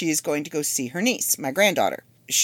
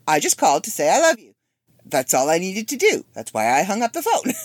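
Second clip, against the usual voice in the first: insistent mom; 4 semitones higher, 4 dB louder than usual. Retold or imitated. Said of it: "And I said".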